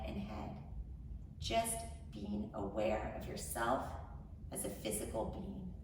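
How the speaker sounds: measured meditation voice with long pauses; guided meditation. Acted. Host leading incarcerated women into grounding, measured guided meditation. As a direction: guide them gently, phrase by phrase.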